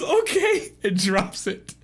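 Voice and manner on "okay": high squeaky falsetto; loud, high little character voice; shy twin. Acted. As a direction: squeak out a quick assent. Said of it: "she goes".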